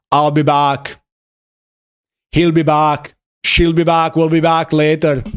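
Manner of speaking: deadpan mock Austrian catchphrase; even, Austrian-accented action-hero line; Arnold Schwarzenegger. Streamer riffs on a film catchphrase, mock Austrian accent.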